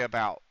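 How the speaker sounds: "about" with an open ow vowel; ordinary "about", as in Vancouver; plain Western Canadian "about". Shown as a demonstration. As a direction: say "about" to rhyme with out, no oo. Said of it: "People are gonna say".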